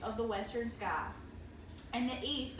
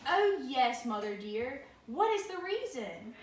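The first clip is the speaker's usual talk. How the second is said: hammy stage actor; 2 semitones higher, 4 dB louder than usual. Acted. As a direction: beg sweetly for the answer. Child eagerly asks mother.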